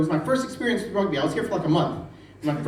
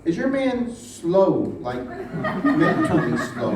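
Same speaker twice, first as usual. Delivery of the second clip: mock slow question; slower than usual. Coworker asking about the husband.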